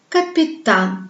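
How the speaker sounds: exaggerated long final A in "Capitaine"; stress on last A. Shown as a demonstration. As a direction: lean on the last syllable of "Capitaine". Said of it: "L'accent tombe sur la dernière A".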